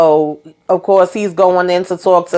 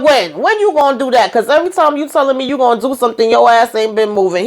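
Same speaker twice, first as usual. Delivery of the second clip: fed-up retort; 5 semitones higher, faster than usual. Retold or imitated. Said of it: "And he's pissed".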